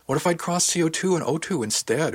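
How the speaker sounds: high-pitched, agitated what-if; worried protest. A narrator's reading. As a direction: fret aloud over a possible disaster. Frets over possible dangerous mistake.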